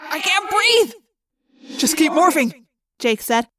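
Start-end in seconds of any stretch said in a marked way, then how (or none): 0.1-0.9 high, strained shout; desperate, pitched-up plea; panicked cry. A narrator's reading. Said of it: "I heard Marco cry". 1.8-2.7 raised, tense command; urgent order. Acted. Urgent order inside the monster.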